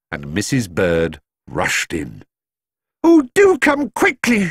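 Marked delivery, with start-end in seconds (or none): 3.0-4.5 high urgent housekeeper cry. A narrator's reading. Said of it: "she cried".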